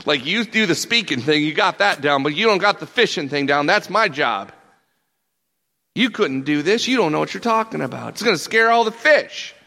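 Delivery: cocky fisherman telling off an amateur; indignant objection. Acted. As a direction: push back in disbelief, building to a loud high finish. Peter's indignant inner objection to Jesus.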